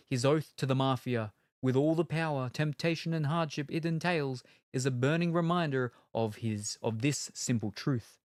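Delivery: weighty box-copy narration; trailer read. Acted. Reading the blurb, plain trailer voice.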